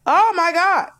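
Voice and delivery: high, loud oh my God; loud exclamation. Real, not acted. Exclaiming about pain.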